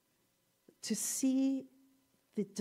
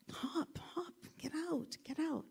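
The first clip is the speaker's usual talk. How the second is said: frog calling up; 7 semitones higher, 7 dB quieter than usual. Retold or imitated. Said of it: "he yells down at the other two frogs".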